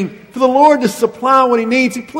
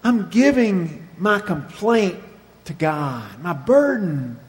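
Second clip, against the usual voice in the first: quiet confession; 2 semitones lower, 4 dB quieter, slower than usual. Retold or imitated. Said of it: "He says".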